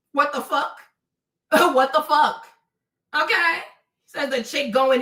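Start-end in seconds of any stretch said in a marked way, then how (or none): 0.1-3.6 laughing. Real, not acted. Laughing at the comment.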